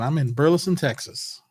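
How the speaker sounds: light touch of a Southern accent. Shown as a demonstration. Host telling viewers where he is, light Southern accent. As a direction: lean slightly into a Southern accent. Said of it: "with a Southern accent".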